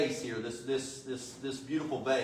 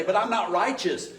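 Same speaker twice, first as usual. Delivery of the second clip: mock protest; 6 semitones higher, 5 dB louder than usual. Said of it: "some of us sitting here would say".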